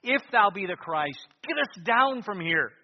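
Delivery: jeering dying thief; mocking thief. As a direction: hurl it at him from the cross. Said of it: "the one thief spoke up".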